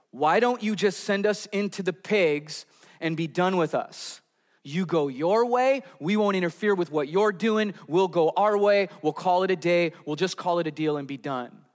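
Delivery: lightly acted deal-making, pushing each offer along; bargaining demons. Demons try to broker a deal with Jesus, lightly acted bargaining. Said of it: "try to broker a deal".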